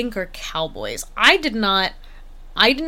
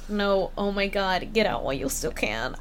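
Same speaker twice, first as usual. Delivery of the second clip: hushed warning; 4 dB quieter than usual. Retold or imitated. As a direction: warn them off in a hush. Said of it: "the other horses are like".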